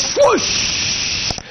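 high, airy whooshing sound; whooshing breath of the healer's push; breathy swoosh. Retold or imitated. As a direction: blow a swoosh like a spirit rushing past. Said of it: "And he goes".

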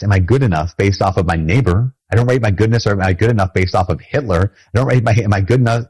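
normal talking voice

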